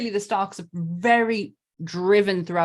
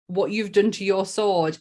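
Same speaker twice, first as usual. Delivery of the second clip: put-on Irish accent. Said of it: "in that beautiful accent, Irish accent".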